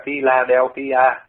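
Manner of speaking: Philadelphia said slowly, syllable by syllable, the way Vietnamese speakers read it; slow, spelled-out Philadelphia; Vietnamese-style Philadelphia. Shown as a demonstration. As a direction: sound out Philadelphia carefully, one syllable at a time. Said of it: "Họ sẽ đọc là".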